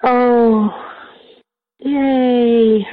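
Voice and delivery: a bright little cheer of joy; delighted. Real, not acted. Delighted at a raised hand.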